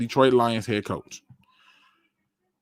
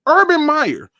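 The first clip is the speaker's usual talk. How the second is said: excited; 12 semitones higher, 4 dB louder, slower than usual. Real, not acted. Excited announcing name.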